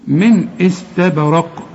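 slow recitation of "من استبرق" with the b bounced; echoed b. Shown as a demonstration. Teacher repeats it for the student, slow bouncing b. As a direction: release the b of "استبرق" with a small echo. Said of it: "الباء هنا هقلقلها".

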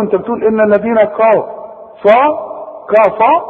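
"كفروا" with a thick, heavy kaf, fast; mock heavy kaf. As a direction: exaggerate the wrong "كفروا". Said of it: "أقول له".

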